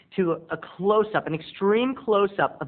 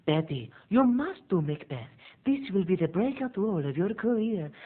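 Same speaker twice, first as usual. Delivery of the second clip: pushy agent; 3 semitones higher, 4 dB quieter than usual. Retold or imitated. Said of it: "agent urging Betty".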